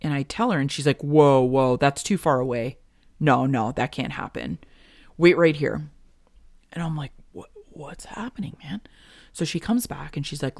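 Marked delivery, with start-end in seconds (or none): 1.0-5.9 loud urgent whoa whoa; urgent alarm. Retold or imitated. Tech urgently reacting. 7.3-8.8 whispered, confused question; whispered worry. Retold or imitated. Confused reply, unvoiced.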